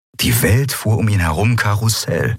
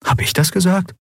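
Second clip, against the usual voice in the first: wondering; 11 semitones higher than usual. Acted. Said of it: "wunderte sich Miko".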